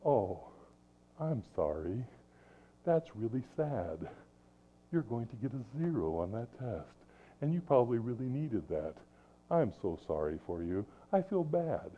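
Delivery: soft, sympathetic and unbending; sympathetic parent. Shown as a demonstration. Parent calmly consoling a child who gets a zero. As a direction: say it gently but give nothing. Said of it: "these crucial words which you as parents always need to say".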